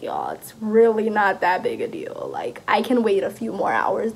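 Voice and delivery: mildly laid-back brush-off; calm. Retold or imitated. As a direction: play it down, unbothered. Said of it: "just kinda sitting there calm".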